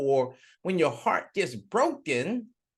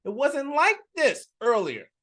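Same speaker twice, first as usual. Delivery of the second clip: desperate plea; 10 semitones higher than usual. Acted. Politician confronts the devil, high desperate plea. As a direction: beg the devil for an answer. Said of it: "And he said".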